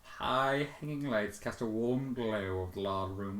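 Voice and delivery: ordinary delivery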